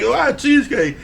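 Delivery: high-pitched mock disbelief; imitating baffled experts. Retelling the experts' baffled reaction.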